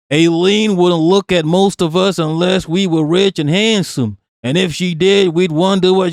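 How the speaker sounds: lightly put-on Yankee reading voice; Yankee accent. Streamer reading out a tweet about two skaters, light Yankee accent. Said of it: "Let me do a Yankee accent".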